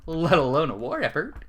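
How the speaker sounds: usual speaking voice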